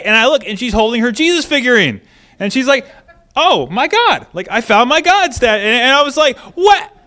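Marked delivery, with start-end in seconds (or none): 3.3-5.6 higher-pitched imitation of a small child; excited young daughter. Daughter shows parent her figurine, high excited voice. 6.4-7.0 high, loud startled question; acted jolt of surprise, pitched way up; taken aback. Parent learns what daughter meant, high surprised outburst.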